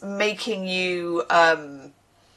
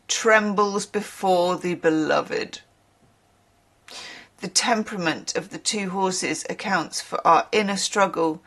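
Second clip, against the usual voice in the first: story reading. Acted. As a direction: savour each phrase as you read aloud. Reads a passage aloud.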